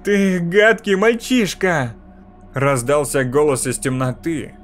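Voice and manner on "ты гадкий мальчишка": slow, harsh and higher, spitting each word; harsh, nasty. A narrator's reading. Mirror voice turns on the boy, slow and harsh. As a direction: turn from sweet to vicious in one breath. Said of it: "теперь он стал резким и неприятным".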